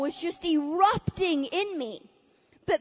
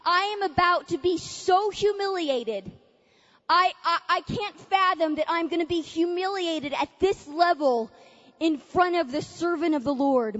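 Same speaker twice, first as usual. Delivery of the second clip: tearful dread; 2 semitones higher than usual. Retold or imitated. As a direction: dread being humiliated, near tears. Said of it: "I'm going".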